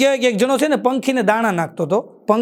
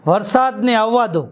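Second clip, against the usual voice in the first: slow, solemn recital of વરસાદને આવવા દો; poem title recital; slower than usual. Shown as a demonstration. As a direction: announce વરસાદને આવવા દો slowly like a poet. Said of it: "આજની મારી કવિતાનું શીર્ષક છે".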